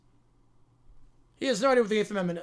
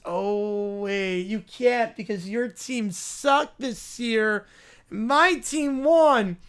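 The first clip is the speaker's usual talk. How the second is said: slow, gloating taunt in a put-on kid voice; mocking taunt; 2 semitones lower, much slower than usual. Kid gloating at Daniel over his team. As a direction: drag out the brag to rub it in.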